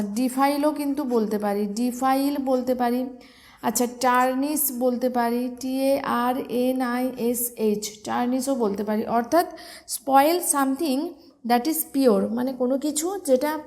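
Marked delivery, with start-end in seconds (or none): 5.6-8.0 spelled letter by letter. Shown as a demonstration. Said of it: "syllable ভেঙে ভেঙে বলে দিচ্ছি".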